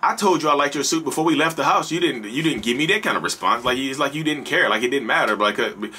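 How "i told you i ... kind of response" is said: higher, wounded complaint; imitating a hurt, annoyed wife; mad wife. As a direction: call him out for ignoring you. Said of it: "you over there mad".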